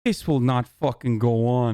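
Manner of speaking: lightly put-on Italian American accent; a hint of Italian American tough guy. Streamer answering the clip in a mild mock Italian American accent. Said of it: "I'm doing an Italian American accent".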